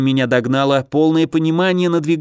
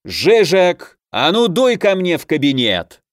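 loud, higher barked order; sudden bark; 6 semitones higher, 3 dB louder than usual. A narrator's reading. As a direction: bark the order across the room. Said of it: "неожиданно рявкнул".

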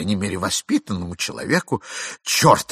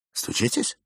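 whisper; 5 dB quieter than usual. Acted. Whispered on the landing.

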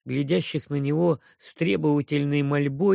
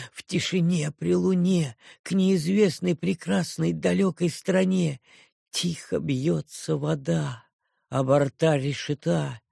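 poem recital. A narrator's reading. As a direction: read the verses in a gentle, rhythmic sing-song. Reads Lear poem verses. (напевное чтение стихов)

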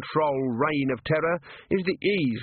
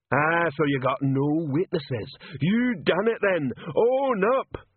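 slow, much higher bellowing troll; troll shouting; 6 semitones higher, slower than usual. Acted. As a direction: shout it at the lined-up staff. Troll interrogating.

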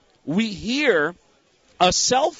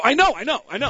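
retold hasty agreement; 6 semitones higher, faster than usual.

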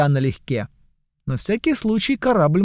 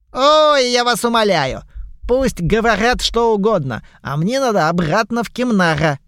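dismissive merchant voice; 6 semitones higher than usual. Acted. Goblin merchant brushes off the joke, high and fussy. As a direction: wave it away like a busy trader.

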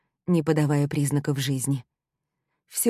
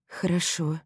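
distrustful; 3 dB quieter than usual. A narrator's reading. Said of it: "с недоверием ответила я".

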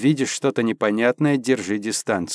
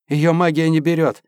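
despairing; 4 semitones higher, 4 dB louder than usual. Acted. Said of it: "с отчаянием произнёс Горшков".

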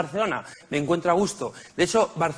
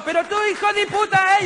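much higher, louder mock yell; vendor yelling; 4 dB louder than usual. Comedian voicing the vendor cursing him for stepping on goods, higher mock yell. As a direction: shriek the insult like the furious vendor. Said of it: "ocho bolsos".

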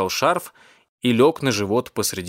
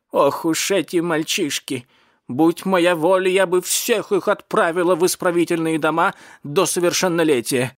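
cat lady, indignant; 6 semitones higher than usual. Acted. Cat lady condemns the boys, indignant. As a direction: play a scolding cat lady, pitched up.

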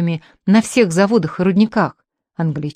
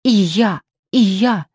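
hysterical squeal; slower than usual. Acted. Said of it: "истерично взвизгивала".

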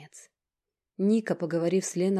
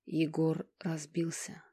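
sobbing whisper; slower than usual. Acted. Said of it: "выпалила Алина и, рыдая".

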